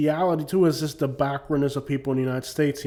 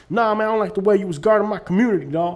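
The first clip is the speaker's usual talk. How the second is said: much higher, louder, fast hammed-up scolding; mock street scolding; 6 semitones higher, 4 dB louder than usual. Telling the cop he guarded the community badly, fast, higher and louder. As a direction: rattle off a cartoonish street-tough telling-off.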